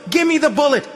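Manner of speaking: loud, very high yell rising at the end; the kid insisting even harder; girl yelling it again, rising; worked-up shout. Acted. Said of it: "started getting worked up".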